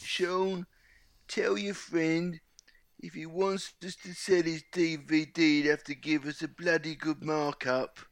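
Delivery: mild impression of a chairman lecturing Sean; Golden Sully impression. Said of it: "can we get a little Golden Sully impression too?".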